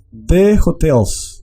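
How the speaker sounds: slow "hotels" with H like Spanish J, stress on TELS; pronunciación holandesa. Shown as a demonstration. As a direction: draw out "hotels" as a Dutch model, stressing the second syllable. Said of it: "se hace énfasis o entonación en la segunda sílaba". ("hotels" muy despacio, hache como jota, énfasis en TELS)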